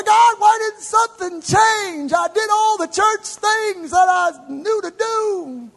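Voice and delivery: high, loud, slow pleading shout; frustrated believer shouting at God; anguished complaint. Retold or imitated.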